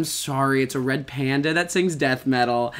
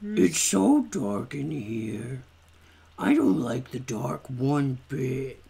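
timid character voice; 3 semitones lower, slower than usual. Acted. Voicing a scared character.

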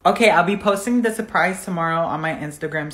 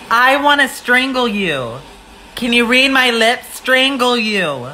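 raised, drawn-out mock threat; acted threat; 4 semitones higher than usual. Telling the soaked complainer off, exaggerated annoyed threat. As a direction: spell out the threat slowly, pitched up.

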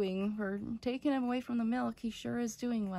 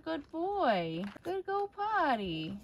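higher, louder singsong praise; encouraging puppy praise; 5 semitones higher, 4 dB louder, slower than usual. Real, not acted. Owner praising a puppy for going potty, encouraging. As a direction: cheer the puppy on in a high voice.

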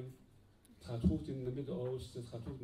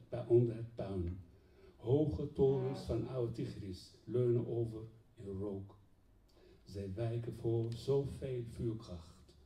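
measured declamation with deliberate phrasing; poem recital. Acted. Poet addresses the president about war in Iraq, formal poetic declamation. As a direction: recite it as a solemn open letter in verse.

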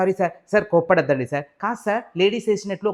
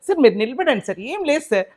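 stifled laughter; 7 semitones higher than usual. Acted. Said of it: "ఏందయ్యా నువ్వు కామెడీకి నవ్వుకుంటా?".

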